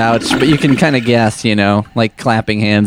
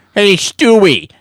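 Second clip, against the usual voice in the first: very high put-on cartoon voice; 10 semitones higher than usual. Talking about old cartoon soundboards, doing a cartoon character impression. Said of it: "I sound like an African refugee or something".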